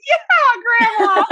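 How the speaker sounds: high, loud whoop of encouragement; imitated rowdy, high-pitched cheer; retold cheering. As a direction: cheer her on like a proud crowd. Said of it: "We were like".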